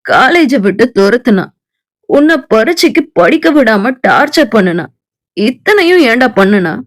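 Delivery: low, quick, offhand friend; Chandru's voice. Acted. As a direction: toss it back like a puzzled buddy.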